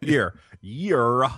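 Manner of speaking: YEAR stretched into extra syllables; drawn-out southern YEAR. Retold or imitated. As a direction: mockingly draw out the word Year. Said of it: "When she says it".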